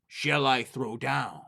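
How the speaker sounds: slow, drawn-out ghostly call; a spirit moaning down the chimney; eerie chimney voice. Acted.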